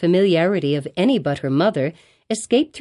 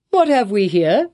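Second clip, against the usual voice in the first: surprised; 3 semitones higher, 4 dB louder than usual. A narrator's reading. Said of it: "looking with surprise".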